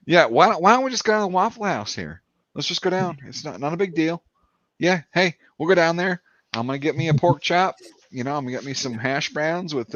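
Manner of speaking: relaxed, understated Eastern Tennessee twang; light Eastern Tennessee accent, unforced; subtle Eastern Tennessee accent. Retold or imitated. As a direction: chat like an easygoing Eastern Tennessee local. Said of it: "it's a very subtle kinda accent".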